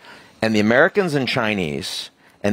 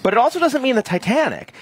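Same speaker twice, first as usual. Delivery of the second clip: passionate; 12 semitones higher than usual. Real, not acted. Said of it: "you're so passionate".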